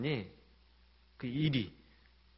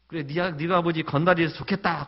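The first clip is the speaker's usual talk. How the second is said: louder sneering scold in Gyeongsang dialect; teacher sneering at the boy, loud and mocking; 4 semitones higher, 8 dB louder than usual. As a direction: throw the sarcasm at the student. Teacher mocks, retold again.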